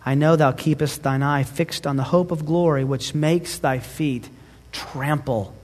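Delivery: put-on measured, earnest reading of an old letter; solemn letter reading. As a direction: read it as a wife's devoted farewell. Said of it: "Let me read it for you".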